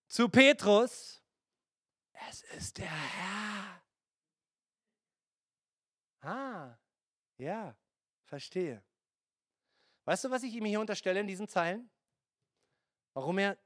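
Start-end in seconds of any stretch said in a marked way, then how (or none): 2.3-8.8 unvoiced secret whisper, slow. Beloved disciple whispering to Petrus, hushed and slow.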